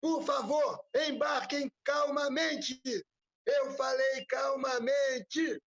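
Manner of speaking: high, loud train station announcer; over the intercom. Pretend. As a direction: call out like a platform loudspeaker. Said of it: "Esse é um trecho do trem do Zé Cordeiro".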